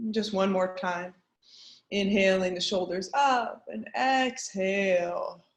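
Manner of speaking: measured meditation guide with long pauses; guided meditation. Acted. Teacher guiding an online group through a grounding practice, guided meditation. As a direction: lead them gently inward, pausing between instructions.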